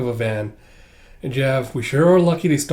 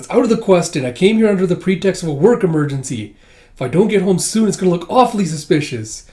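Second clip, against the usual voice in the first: raised, louder acted protest; emphatic refusal; 5 semitones higher, 5 dB louder than usual. Twilight refuses a drink with his colleague, loud protest. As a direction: protest firmly, over-the-top.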